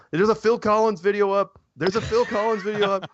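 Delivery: high-pitched imitation of excited fans; hammed-up breathless news-sharing; mock excited clamor. Imitating excited people in the community.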